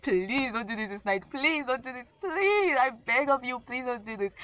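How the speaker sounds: begging her not to, voice climbing; retold pleading. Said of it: "I was like".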